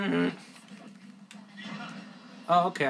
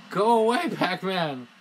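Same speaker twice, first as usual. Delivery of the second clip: high loud shout at the screen; raging gamer; 5 semitones higher, 6 dB louder, slower than usual. Real, not acted. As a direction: shoo the opponent off. Yelling at opponent.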